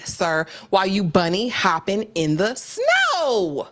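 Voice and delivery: lightly voiced sermon-like delivery; Doctor Umar impression. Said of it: "quoted the good Doctor Umar".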